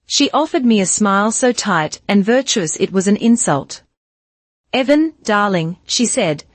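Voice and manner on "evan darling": soft Southern drawl; Lena's southern drawl. Acted. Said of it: "her voice a soft southern drawl".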